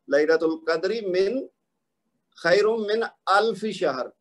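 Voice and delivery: slow, measured recitation; قرآنی آیت کی تلاوت. Shown as a demonstration. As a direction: recite the verse slowly and carefully. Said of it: "قرآن پاک پڑھتے ہوئے". (ٹھہر ٹھہر کر تلاوت)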